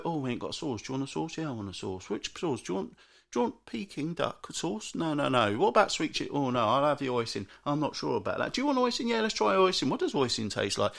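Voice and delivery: dithering couple. Retold or imitated. Imitating couple choosing sauce.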